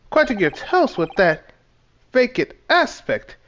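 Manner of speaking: fussy detective with swooping emphasis; theatrical detective. Acted. Detective scolding his companion over breakfast, theatrical. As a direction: declaim each phrase like an eccentric sleuth. Reads Sholmes's dialogue aloud.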